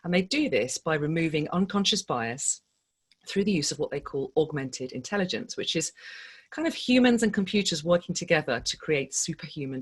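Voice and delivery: polished, measured scripted intro; podcast intro read. Acted. Host welcomes listeners to fundraising stories, scripted intro read. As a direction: read it as a show opener.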